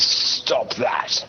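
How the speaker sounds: whispered raspy ancient voice in the mind. Acted. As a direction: rasp it out like an ancient presence. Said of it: "you hear a raspy, ancient voice in your mind".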